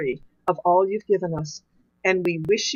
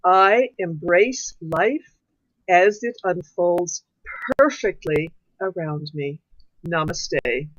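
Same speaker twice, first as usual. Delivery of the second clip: affirmation recital; 3 semitones lower, slower than usual. Acted. Judy leading everyone in the closing affirmation, slow and solemn. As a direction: lead the congregation through it, word by word. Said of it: "I invite everybody to say this affirmation together".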